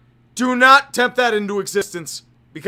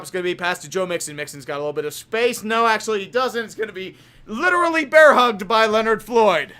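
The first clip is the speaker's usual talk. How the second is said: quick, lower announcer call; play-by-play; 3 semitones lower than usual. Acted. Describing the Bengals drive for chat, brisk play-by-play. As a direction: call the short pass at a clip. Streamer calls the game live.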